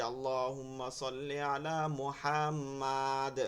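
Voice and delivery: slow, মুহাম্মাদ stretched where it should be short; slow, wrongly lengthened recitation; wrong drawn-out recitation. Shown as a demonstration. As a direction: overlong vowels in মুহাম্মাদ, mistaken style. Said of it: "এই যে টানতেছেন মুহাম্মাদ".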